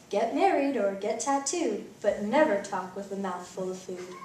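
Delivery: loud lecturing dad with a laugh; stern father. Acted. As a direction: lay down the law, half laughing. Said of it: "His dad said".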